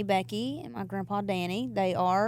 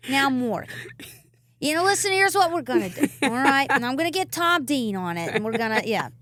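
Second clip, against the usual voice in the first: lightly imitated lawyer giving orders, high at first; a hint of a bossy caller, fading out; 4 semitones higher, 4 dB louder than usual. Singer mimicking her lawyer's calls, light impression. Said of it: "That's what you call me".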